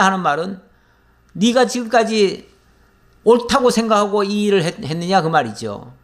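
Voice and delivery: ordinary talk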